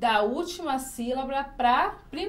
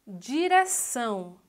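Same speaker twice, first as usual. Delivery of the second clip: "Direção" slowly, weight on final ÇÃO; stress on final syllable; slower than usual. Shown as a demonstration. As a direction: sound out "Direção", holding ÇÃO. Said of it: "a sílaba mais forte". ("Direção" devagar, com força no -ção)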